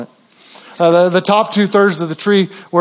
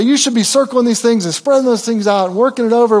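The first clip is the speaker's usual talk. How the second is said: mock nagging; 5 semitones higher than usual. Grandfather nagging granddaughters about decorating, mock-fussy. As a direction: pretend fussy grandpa, pitched higher. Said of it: "didn't get on them and say".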